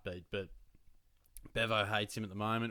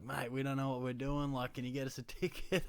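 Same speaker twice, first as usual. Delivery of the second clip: tipsy Kiwi bloke, a bit higher; half-pissed Kiwi asking for a ticket, mock accent; 4 semitones higher than usual. Imitating half-drunk Kiwi fans asking for tickets, Kiwi accent. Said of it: "They got the accent".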